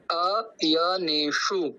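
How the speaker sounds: अयनेषु spoken slowly, every syllable full; teacher sounds out अयनेषु syllable by syllable; slow sanskrit recitation. Shown as a demonstration. Teacher shows the class, slow sanskrit recitation. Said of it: "हर शब्द को पूरा कहना है".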